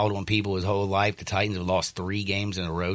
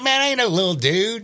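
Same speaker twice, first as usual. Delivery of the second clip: retold self; 11 semitones higher, 4 dB louder than usual. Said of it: "I was like".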